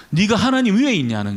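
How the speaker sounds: mildly emphatic retold reprimand; retold scolding. Professor reproving a student's prayer, mild retold scolding. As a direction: lightly imitate a teacher's rebuke. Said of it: "얼마나 그 야단하는지요".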